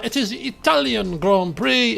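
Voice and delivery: lightly put-on Italian accent; a hint of hammed-up Italian accent. Shown as a demonstration. Streamer introducing the Italian Grand Prix, mock Italian accent. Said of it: "in my best Italian accent there".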